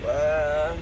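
soft, low pretend wail; half-hearted imitation of a bawling baby; mock baby cry. Man voicing his crying baby, mock wail. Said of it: "my baby crying".

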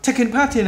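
"taking part in" said joined up, "part" into "in"; linked words. Shown as a demonstration. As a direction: link "part in" without a gap. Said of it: "Đọc nối chữ này luôn nè". (đọc nối "part in" liền nhau)

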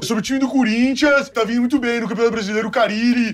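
easygoing ex-footballer drone; Casagrande impression. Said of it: "É o Casão".

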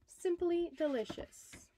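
high, relishing praise; delighted. A narrator's reading. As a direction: savour it like a treat. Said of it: "took a bite, and said".

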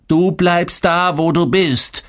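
angry father's command; thundering father. A narrator's reading. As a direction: lay down the law slowly and forcefully. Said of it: "donnerte mein Vater".

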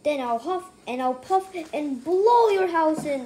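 a wolf's loud threat; wolf yelling. Acted. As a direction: yell it out to blow the house down. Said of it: "the wolf yelled".

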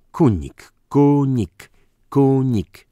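loud, high, drawn-out name; angry shouting. A narrator's reading. Count drums the real name into Dyzma, shouting angrily. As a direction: hammer each repeat at full voice.

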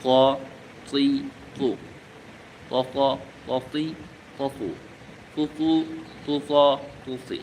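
very slow "ক জবর ক", drawn out and stressed; slow syllable drill. Shown as a demonstration. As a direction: spell it out syllable by syllable for students. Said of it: "হরফটির উচ্চারণ একটু মোটা হবে".

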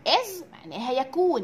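usual speaking voice

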